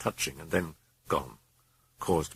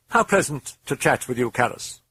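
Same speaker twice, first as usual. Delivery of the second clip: grinning demon; 7 semitones higher than usual. Acted.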